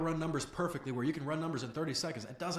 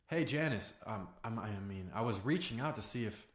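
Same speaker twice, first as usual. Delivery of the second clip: lower, halting approach full of fillers; hesitant opener; 5 semitones lower than usual. Shown as a demonstration. Coach showing a caller approaching Janice, hesitant. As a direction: stumble gently into the call, trailing lower. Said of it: "That sounds completely different than".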